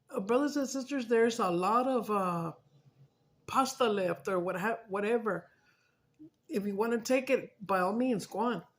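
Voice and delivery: loud invitation to the church; calling out. Retold or imitated. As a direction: announce it to everyone. Announcing leftovers to congregation.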